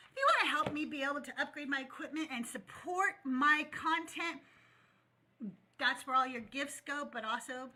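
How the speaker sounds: talking while working bubble gum; chewing gum. Real, not acted. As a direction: speak around a wad of gum. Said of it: "I shouldn't talk when I'm blowing a bubble".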